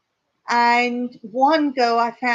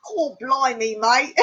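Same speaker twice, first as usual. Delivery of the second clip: put-on playful English accent; 3 semitones higher than usual. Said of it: "watch me just for my accent".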